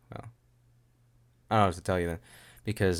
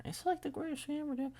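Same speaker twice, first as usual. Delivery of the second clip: very high, soft, quicker squeak; squeaky gushing; 8 dB quieter, faster than usual. Pretend. Gushing over a favourite show, squeaky falsetto. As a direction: gush in a tiny falsetto. Squeaky repeat of own praise.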